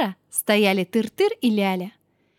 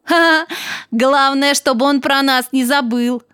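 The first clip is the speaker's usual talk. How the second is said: loud, jolly truck character; cheerful, louder storybook voice; smiling; 4 semitones higher, 6 dB louder than usual. A narrator's reading. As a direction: open on a hearty ha-ha, then speak up with a smile. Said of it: "улыбнулся Тыр-Тыр".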